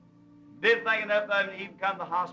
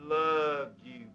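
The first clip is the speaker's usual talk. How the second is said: tender Jesus; 3 semitones lower, slower than usual. Retold or imitated. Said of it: "here he's going, say".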